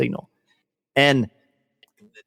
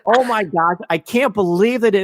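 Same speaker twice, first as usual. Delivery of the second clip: retold overjoyed gasp; 7 semitones higher, 3 dB louder than usual. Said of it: "And I was crying".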